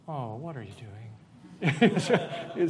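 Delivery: a rising, surprised take. Shown as a demonstration. Acting class demo, caught off guard and surprised. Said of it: "you gotta say the phrase like".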